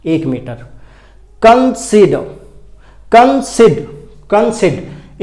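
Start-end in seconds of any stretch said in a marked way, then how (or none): 1.4-5.2 "consider" split into beats, CON pitched up, falling after; stress on first syllable. Shown as a demonstration. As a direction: punch the CON of "consider", then drop. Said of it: "कन में ज़्यादा stress देकर बोला जा रहा है".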